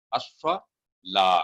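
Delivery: अस्सला with a thin, straight ला. Shown as a demonstration. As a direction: keep the ला light. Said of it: "ला बिल्कुल straight होगा".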